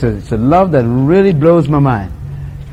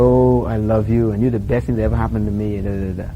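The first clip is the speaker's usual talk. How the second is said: mock romance; 7 semitones lower, 5 dB quieter than usual. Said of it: "and they say, tell each other".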